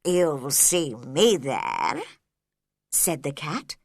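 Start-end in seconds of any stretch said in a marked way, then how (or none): 0.0-2.0 low, slow, knowing cat; Cheshire Cat voice. A narrator's reading. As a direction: promise it slyly.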